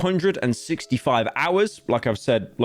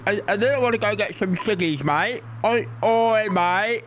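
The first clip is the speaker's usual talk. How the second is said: high-pitched mock Aussie accent; hammed-up Australian twang; 7 semitones higher than usual. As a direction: caricature an Australian bloke, pitched up. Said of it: "everyone talks like this".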